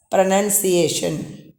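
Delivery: PRONUNCIATION slowly, as "pro-nun-see-ay-shun"; no second O. Shown as a demonstration. Teacher models the noun pronunciation, slow with "nun". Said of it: "there is no O".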